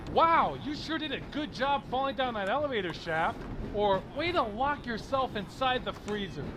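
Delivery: mock congratulation; overdone, insincere cheer; sarcastic praise. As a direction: praise them with obvious sarcasm. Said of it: "what am I supposed to say to people?".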